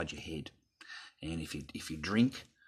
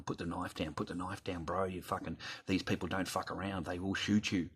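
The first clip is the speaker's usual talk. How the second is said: talking him down. Retold or imitated. Bystander urging a man with a knife, talking him down. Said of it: "I was trying to talk him down".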